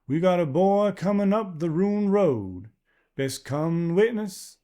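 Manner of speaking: put-on a wary stranger's unplaceable accent; strange rural accent. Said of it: "English in an accent he not only couldn't place".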